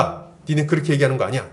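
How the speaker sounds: retold no-nonsense rebuke, firming up at the end; stern correction. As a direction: lightly imitate a leader setting friends straight. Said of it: "정색을 하면 딱 얘기를 했다는 거예요". (정색하고 바로잡는 리더를 흉내 내듯)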